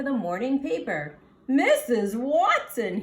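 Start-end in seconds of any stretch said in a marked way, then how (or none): 1.5-3.0 louder call across the house. Acted. Husband calls wife to the door, louder. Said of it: "he called".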